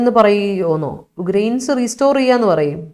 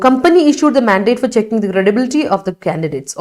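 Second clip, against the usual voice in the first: slow, even classroom read; slow dictation reading; much slower than usual. Shown as a demonstration. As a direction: read it out slowly, word by word, for the class. Teacher reads student sentence aloud.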